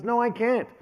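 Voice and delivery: dad admitting his son outdid him; overwhelmed dad. Retold or imitated. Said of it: "He goes".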